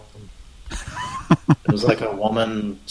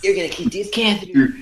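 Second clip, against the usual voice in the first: infomercial pitchman; 10 semitones higher than usual. Pretend. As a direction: hype it like a late-night ad.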